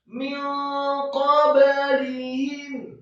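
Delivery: slow chanted word with stretched syllables; Quran recitation. Shown as a demonstration. Teacher models the word for learners, Quran recitation. Models ikhfa in tajwid lesson.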